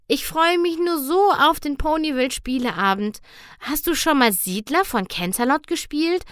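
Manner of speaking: high, overly cheerful pony; nervous pony voice. Acted. Twilight mit hoher Ponystimme. (hohe, gespielt fröhliche Ponystimme)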